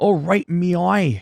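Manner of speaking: fake Australian accent, slow and high. Explaining how accents sound, demonstrating an australian speaker: put-on australian accent.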